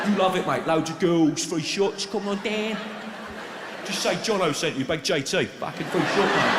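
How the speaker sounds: lightly voiced John Terry as a Tenerife bar tout; pub promoter voice. John Terry touting free shots outside a pub, hammed-up promoter. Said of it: "outside a pub in Tenerife or somewhere going".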